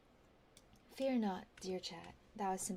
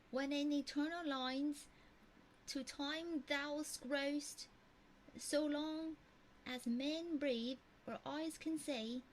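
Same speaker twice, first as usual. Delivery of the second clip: put-on made-up Texan-ish accent; 6 semitones higher than usual. Streamer rereads the sonnet ending to chat in a made-up Texan-ish accent. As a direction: say when in eternal lines in an invented Texan-ish accent. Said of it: "this sounds Texan".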